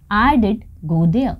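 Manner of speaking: slow, stressed "did" in I did go there; emphatic did. Shown as a demonstration. Teacher modelling emphatic past to students, slow stressed did. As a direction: press on did, slowly. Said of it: "मैं वहाँ जाती तो थी".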